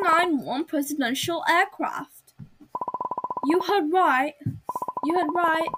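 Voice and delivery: put-on amateur British accent for an official welcome; lightly put-on British announcer. Host welcomes passengers to presidential aircraft, British accent. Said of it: "I'm gonna give her a British accent".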